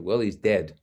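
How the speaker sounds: matter-of-fact, retold bluntness; blunt. Son telling the doctor of his father's death, bluntly. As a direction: give the news without cushioning it. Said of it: "I said pretty bluntly".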